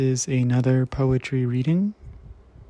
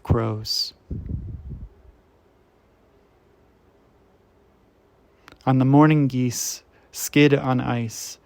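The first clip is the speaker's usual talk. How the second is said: measured poetry recital, firm attack easing off; poem reading; 3 dB louder than usual. Acted. Reader sharing a beloved poet's work, measured poem recital. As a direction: read each image out with deliberate pauses.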